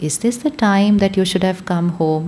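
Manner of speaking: very sweetly. Retold or imitated. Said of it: "Very sweetly, very politely".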